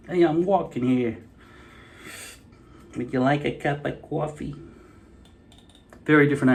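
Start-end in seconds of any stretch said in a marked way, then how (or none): 0.1-1.2 brash New York street voice; New York accent. Retold or imitated. New York accent, to viewers. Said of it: "from New York". 3.0-4.6 put-on Southern accent. Southern accent, to viewers. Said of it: "down south, they talk completely different".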